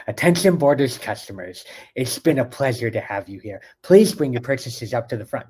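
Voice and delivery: slushy, lisping cartoon voice, s sounds turned to sh; Sid from Ice Age. Closing announcement to Borders customers, slushy lisping cartoon impression. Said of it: "I did Sid from Ice Age".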